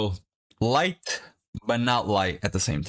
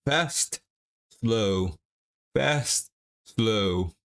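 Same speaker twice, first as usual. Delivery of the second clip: quick push, slow lowering rhythm; fast then slow; much slower than usual. Shown as a demonstration. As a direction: call out the tempo of the reps. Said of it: "try to slow it down".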